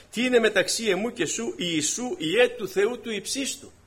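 mock crying out. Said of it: "άρχισε να φωνάζει".

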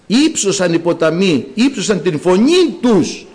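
slow, drawn-out verse reading; scripture declaimed. Real, not acted. Preacher quotes the psalm to the congregation, slow declamation. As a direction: declaim the verse slowly, word by word.

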